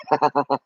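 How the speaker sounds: short run of giggles; easy, amused laugh; amused chuckle. Real, not acted. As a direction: laugh lightly at your own joke. Amused at own joke.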